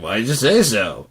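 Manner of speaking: put-on mild British accent; a light British try. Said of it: "the British accent".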